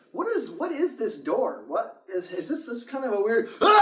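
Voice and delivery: puzzled mumble breaking into a shout; imitating Paul's scream. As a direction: act out Paul's fright then scream. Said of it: "this is exactly what he did".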